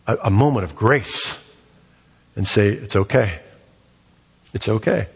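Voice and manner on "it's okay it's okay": low, tender reassurance; gentle reassurance. Acted. Parent giving in to a pleading child, gently reassuring. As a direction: let a parent's grace settle in, low and easy.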